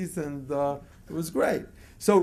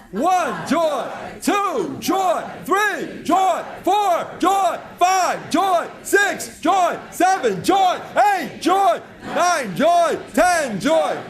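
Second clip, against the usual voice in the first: higher and louder, shouting each number and joy; joyful shouted counting; 9 semitones higher, 6 dB louder, much slower than usual. Shown as a demonstration. Leading the crowd counting joyfully, building jubilant shout. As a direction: build a jubilant chant, every count a cheer. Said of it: "the way you count joyfully is like this".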